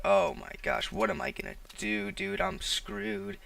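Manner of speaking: hushed, anxious panic, mildly acted; replaying the moment he panicked, under his breath; freaking out. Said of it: "I'm, like, freaking out".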